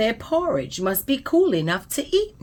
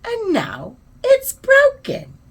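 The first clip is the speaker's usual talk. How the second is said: very high, louder tearful squeak; squeaky little bear; 13 semitones higher, 5 dB louder than usual. A narrator's reading. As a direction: wail it like a heartbroken baby bear. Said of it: "he squeaked".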